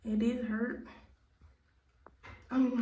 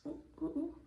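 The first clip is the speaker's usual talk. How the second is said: startled; 5 semitones higher, 8 dB quieter, faster than usual. Real, not acted. Almost falling on crutches.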